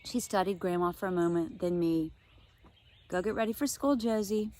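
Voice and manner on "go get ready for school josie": a hint of firmness; mildly firm mother's order; firm mom. Mom firmly sends Josie off, lightly voiced. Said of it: "Mom said firmly".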